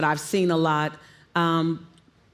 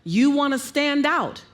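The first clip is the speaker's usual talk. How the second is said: higher pitch, standing out from mid-range; playing higher keys; 4 semitones higher than usual. Shown as a demonstration. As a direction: lift the voice up to stand out. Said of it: "Most people are gonna play here".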